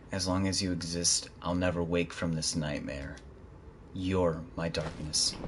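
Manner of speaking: Cloud voice. Acted. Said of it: "gotta do my Cloud voice".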